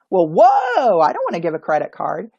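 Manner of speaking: loud, taken-aback whoa; startled guest. Shown as a demonstration. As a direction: balk at the request. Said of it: "counter by saying".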